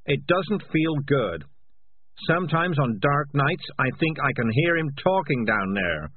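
loud, high, agitated cat confessing; frantic, guilt-ridden cat rant; guilty cat's outburst. Acted. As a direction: blurt it all out defensively, pitch climbing.

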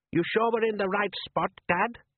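put-on high young boy's voice, uneasy; a worried son asking his dad; boy Les. A narrator's reading. Son Les doubting his father at sea, high uneasy boy voice.

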